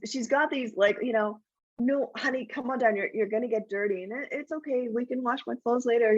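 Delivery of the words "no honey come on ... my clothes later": higher, forced-calm coaxing; mom keeping cool. Retold or imitated. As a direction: sweetly plead while staying composed in public. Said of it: "keep her cool about it all".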